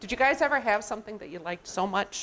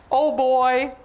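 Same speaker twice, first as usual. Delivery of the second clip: high, loud burst of delight; thrilled story character spotting a treat; excited elephant; 6 semitones higher, 4 dB louder, much slower than usual. Acted. Elephant seeing the penguin's ice cream cart, excited. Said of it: "And elephant says".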